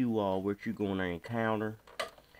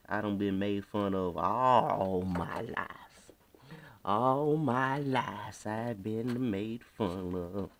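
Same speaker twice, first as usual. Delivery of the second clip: put-on country accent; much slower than usual. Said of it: "talk in that accent".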